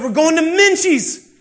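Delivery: high, loud, drawn-out announcement; hyped-up reveal. Retold or imitated. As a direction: whoop the big surprise, stretching it out. Dad announces next stop excitedly.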